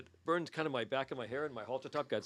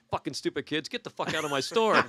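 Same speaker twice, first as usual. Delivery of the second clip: mock angry scolding, building louder; lightly acted irate old guy; retold angry storekeeper; 3 semitones higher, 6 dB louder than usual. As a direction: imitate an old shopkeeper throwing kids out. Old storekeeper throws band out.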